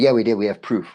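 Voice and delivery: a hammed-up defensive reply; retold insistence. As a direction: throw their denial back loud and sure. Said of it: "And they said".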